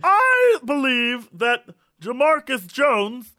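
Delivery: high, slow, shouting pundit; sportscaster voice. Pretend. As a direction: bellow the pick like a TV pundit. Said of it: "you'd be like".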